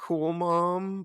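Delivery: put-on, very high, wavering, shaky voice. Calling the mom cool with air quotes: put-on shaky voice.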